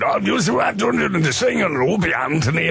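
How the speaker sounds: mock thick Geordie accent, hard to follow; imitating a singer's Newcastle accent; lightly done Geordie impression. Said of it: "you're gonna need a translator though".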